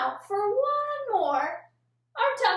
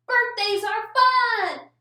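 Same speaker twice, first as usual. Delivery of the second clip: excited; 3 semitones higher, 5 dB louder, slower than usual. Shown as a demonstration. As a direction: say it like the best news. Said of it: "Something exciting in a sentence".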